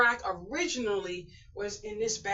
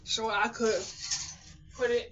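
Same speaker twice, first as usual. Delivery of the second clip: kneeling down; 3 dB louder than usual. Real, not acted. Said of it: "my knees are bad".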